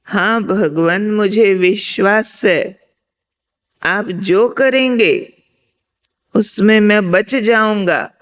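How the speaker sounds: a hint of an earnest believer pleading; hanging man's reply. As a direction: assure God with a lifted voice. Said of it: "वो फिर बोला".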